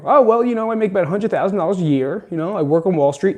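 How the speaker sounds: a hint of a smug Wall Street type; bragging finance guy. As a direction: show off about your salary, fast and pleased.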